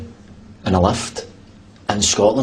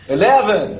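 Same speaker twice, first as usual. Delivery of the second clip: a hammed-up American accent, higher and louder; bad American accent; 8 semitones higher, 3 dB louder than usual. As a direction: try an American accent that lands in Dublin. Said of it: "Where in America is that? Dublin?".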